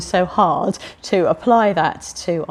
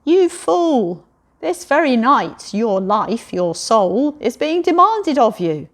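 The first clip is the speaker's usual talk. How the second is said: God; 4 semitones higher, 3 dB louder, slower than usual. Acted. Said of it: "God says".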